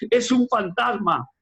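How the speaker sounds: high, drawn-out mock cry; imitated frightened cry. A narrator's reading. Preacher retells the disciples' fright at sea, imitated frightened cry. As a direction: voice their alarm slowly without truly shouting. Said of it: "ellos gritaban diciendo".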